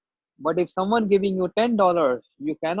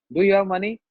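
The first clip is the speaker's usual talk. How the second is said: rude official; 4 semitones higher, 5 dB louder, faster than usual. Retold or imitated. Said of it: "very rude on me".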